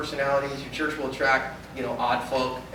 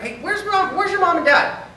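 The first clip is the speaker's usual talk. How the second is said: put-on high, louder call for a lost kid; calling out to child; 12 semitones higher, 3 dB louder than usual. Member calls out to a lost child, high and loud. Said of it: "you start".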